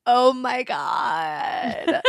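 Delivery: very slow oh my God through a laugh; shocked, laughing disbelief; laughing gasp. Real, not acted. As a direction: let the laugh break through each word. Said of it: "I'm like".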